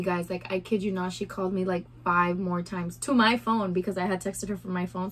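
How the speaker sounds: ordinary delivery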